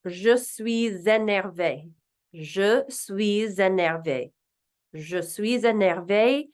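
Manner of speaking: Je suis énervé said slowly as zhuh sweez ennairvay; slow French. Shown as a demonstration. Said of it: "We also have".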